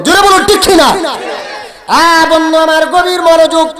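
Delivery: high sermon cry with long pauses; full-force preaching. Acted. Preacher quoting the Prophet on serving parents, high preaching. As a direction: proclaim it high, phrase by phrase.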